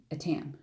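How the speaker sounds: "Etam" as "uh-TAM", weak first vowel; tentative "Etam", said uh-TAM; trying a pronunciation. Shown as a demonstration. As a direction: sound out "Etam" with a short uh, then TAM as in ham. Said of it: "I don't know how you pronounce it".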